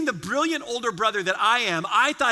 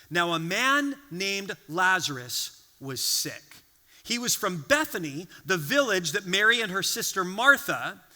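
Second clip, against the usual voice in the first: scripture reading; 3 semitones lower than usual. Acted. Reads scripture aloud.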